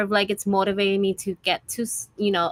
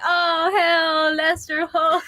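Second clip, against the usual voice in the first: higher voice breaking into laughter; laughing retelling; 7 semitones higher, much slower than usual. Retold or imitated. Student retelling a group chat joke, laughing imitation. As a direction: imitate the group's amused reaction through giggles.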